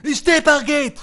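offended husband raising his voice; indignant outburst. Acted. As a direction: throw the words back in outrage. Indignant husband after insult to wife.

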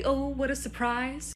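sarcastic mock surprise. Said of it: "now say it with your eyebrows".

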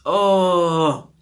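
chewing while talking; muffled closed-mouth speech; mouth full of cake. Real, not acted. Seen 1: Closed, working mouth and grimace after a bite; chewing ends by 4.2.

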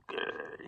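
low-volume, voiceless grr; small growl of mimed annoyance; mock irritable growl. Vlogger showing how noises irritate him, mock growl. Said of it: "just noises make me".

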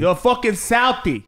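Southie tough-guy put-on; mock Boston accent. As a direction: echo it in a movie Boston accent. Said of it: "Boston accent is hard".

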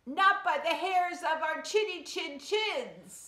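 high, squeaky little pig. A narrator's reading. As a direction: answer like a scared little pig. Pigs answer the wolf.

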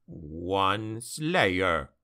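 low dwarf growl, short and final. Acted. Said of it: "growled Gotrek".

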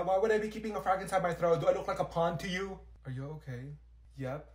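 usual speaking voice

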